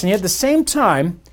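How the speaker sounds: ordinary talk, nothing marked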